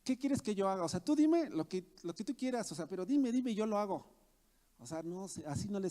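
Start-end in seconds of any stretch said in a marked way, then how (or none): 0.0-4.1 imitated overconfident volunteer, slightly raised voice; boastful. Preacher mimicking a proud servant addressing the Lord, mock boastful. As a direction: press eagerly for orders, mock self-assured. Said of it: "creen que el Señor actúa de esa manera".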